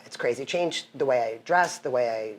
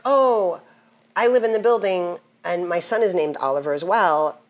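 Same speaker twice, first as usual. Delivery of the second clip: a hint of a chirpy neighbor woman, higher; bright, higher neighbor voice retold; lightly voiced neighbor; 4 semitones higher, 4 dB louder than usual. Neighbor woman greeting her on the street, lightly imitated. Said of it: "and she's like".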